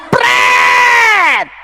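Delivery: mocking pret. Preacher scoffs at the borrowed title, laughing and mocking. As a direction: laugh it off with a sharp raspberry. Mocking retort after Rasul Paulus.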